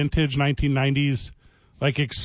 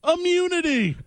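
slow dramatic announcer; 3 semitones higher, slower than usual. Pretend. Mock announcer pitch.

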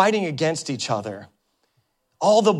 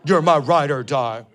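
a lightly voiced friend demanding loyalty; mock friend's plea. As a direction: say it like a clingy buddy. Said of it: "You know what that usually means?".

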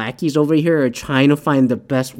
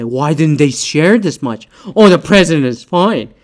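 imitating pundits, rising louder at the end; mock pundit; 4 dB louder than usual. Speaker parodies Fox News and CNN morons, mocking. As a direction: parrot the pundits with mock indignation.

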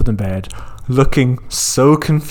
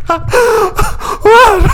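startled what; 4 dB louder than usual. Retold or imitated. Partner startled awake.

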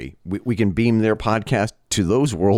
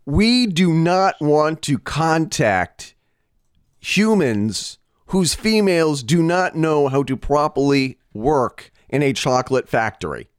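stiff, slow, higher pronouncement; mock alien council; 6 semitones higher than usual. Alien leader refusing contact with humans, stiff and solemn. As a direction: declare it like a solemn alien elder.

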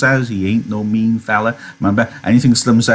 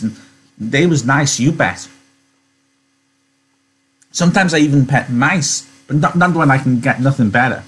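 put-on slightly higher, halting, childlike delight; a touch of eager, simple wonder; lightly voiced simple Lenny; 4 semitones higher than usual.

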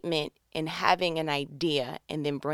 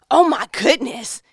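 louder, drawn-out delighted gasp of words; excited gush; 5 semitones higher, 9 dB louder than usual. Acted. Speaker recalls new romance, drawn-out excited gush. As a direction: gush over the new crush.

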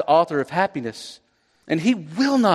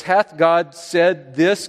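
slow, drawn-out mock serpent's question; slow tempter quote; much slower than usual. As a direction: drag out the old-fashioned challenge slowly. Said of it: "goes right at the word of God and says".

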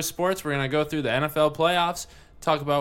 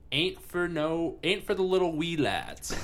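put-on Scottish accent; 5 semitones higher, slower than usual.

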